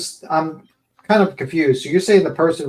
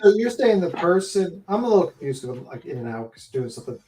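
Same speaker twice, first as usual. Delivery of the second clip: muffled, boxy bad mic; inside a box; 2 semitones higher, faster than usual. Real, not acted. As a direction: sound like talking from inside a tin box. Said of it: "You sound like you're in a box".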